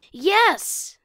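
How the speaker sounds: loud, high cheer; child cheering when friends guess the answer; triumphant yes. Acted. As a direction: shout it in delight.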